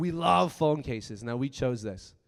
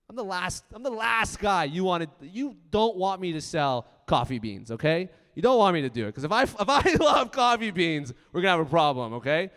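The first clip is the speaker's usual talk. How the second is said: louder and higher, daring copycats to try; fired-up defiance; 4 semitones higher, 6 dB louder than usual. Real, not acted. Speaker warning copycats off his coffee beans, loud defiant build. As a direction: challenge them, voice rising.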